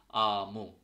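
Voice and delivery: "আমু" with a long open আ; teacher modelling "আমু", A as in father; Finnish A sound. Shown as a demonstration. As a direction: draw out the first vowel of "আমু" as আ. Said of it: "স্বর ইয়ার মতো উচ্চারণ হচ্ছে".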